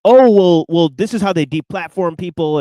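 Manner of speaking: half-hearted mock crying; mock crying complaint. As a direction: imitate someone tearfully protesting. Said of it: "started crying and saying".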